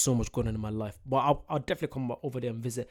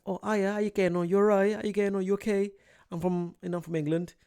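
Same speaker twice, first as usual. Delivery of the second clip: exaggerated English accent, higher pitched; British accent; 6 semitones higher than usual. Telling Americans he's from England, in an exaggerated British accent. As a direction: put on a chirpy English accent. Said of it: "I'll be like".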